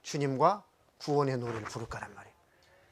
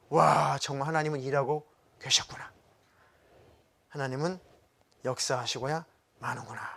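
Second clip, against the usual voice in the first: mild breathy amazement; awed realization. Acted. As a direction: act out a hushed "wow" of realization. Acted awe at God working.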